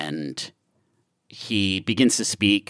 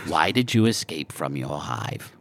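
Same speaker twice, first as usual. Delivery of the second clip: whispering; 5 semitones lower, 6 dB quieter than usual. Acted. Scorpo repeats in whisper.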